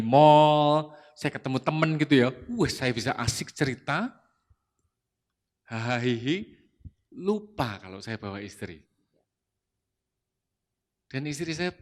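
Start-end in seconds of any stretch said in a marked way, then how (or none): 5.7-6.4 short self-mocking laugh. Real, not acted. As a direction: laugh at your own slip. Laughs at his own forgetfulness.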